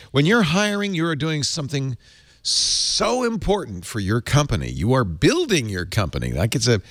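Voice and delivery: upbeat, lively host pitching a sponsor; live ad read. Acted. Host reading the sponsor ad to listeners, lively pitch. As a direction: sell it warmly to listeners like a radio host.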